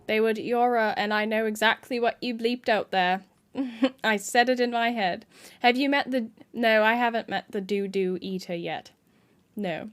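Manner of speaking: casual mock British accent; put-on British accent. Shown as a demonstration. Streamer trading insults in the game, British accent. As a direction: hold an assumed British accent. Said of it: "Five minute British accent".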